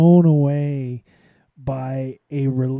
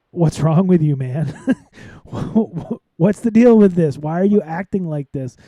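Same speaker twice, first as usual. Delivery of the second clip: exasperated outburst; 2 semitones higher, 5 dB louder than usual. Retold or imitated. Exasperated rant at Modi's officials.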